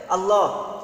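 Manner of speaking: আল্লাহ as "Allo", falling at the end; correct pronunciation. Shown as a demonstration. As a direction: finish আল্লাহ on a rounded o. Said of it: "শুদ্ধ উচ্চারণ হবে". (শুদ্ধ উচ্চারণে "আল্লো")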